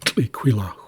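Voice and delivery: "Tliquilahu" kept low, falling at the end. Shown as a demonstration. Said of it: "at a lower tone".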